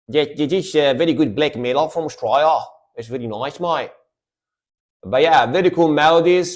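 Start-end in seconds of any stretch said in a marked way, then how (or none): 0.1-3.9 playful put-on Aussie accent; imitated Australian accent. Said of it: "I try to imitate a lot".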